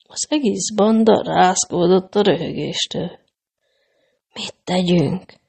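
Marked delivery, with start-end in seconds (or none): 4.3-5.2 hushed, quiet, soft tone. Hiding from the robbers, a traveler asks the others, quiet question. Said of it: "kérdezte halkan menyhért".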